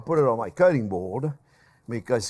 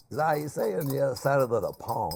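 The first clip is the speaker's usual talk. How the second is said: pompous; 6 dB quieter than usual. Shown as a demonstration. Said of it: "I sound very, uh, pompous".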